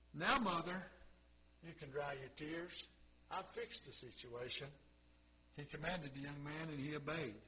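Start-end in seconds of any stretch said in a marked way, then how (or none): 0.1-4.7 softly, gently comforting; calm her like a grieving mother; tender reassurance. Retold or imitated. Jesus gently telling the mother her son is healed. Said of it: "Jesus speaks to the mother".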